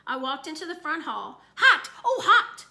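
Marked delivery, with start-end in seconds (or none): 1.6-2.6 high, loud gleeful yell; excited shout. Acted. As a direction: shout it out, thrilled by the game. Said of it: "Fudge cried".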